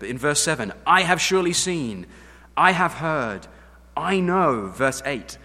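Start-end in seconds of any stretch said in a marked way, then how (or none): 0.9-4.7 loud proclamation of God's words; declaring loudly. Acted. Preacher proclaiming God's I statements, loud and emphatic. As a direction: proclaim it with full force.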